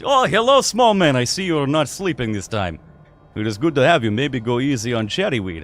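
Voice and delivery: a hearty host's hello; jolly tavern keeper. Acted. Tavern keeper welcomes the small man, jolly. Igor greets Randall.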